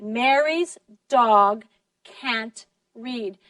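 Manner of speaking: "Mary's", "dog", "can't", "read" each slow and weighty; every word stressed. Shown as a demonstration. Teacher asks which words are stressed, slow even stress on each. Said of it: "All the words are stressed".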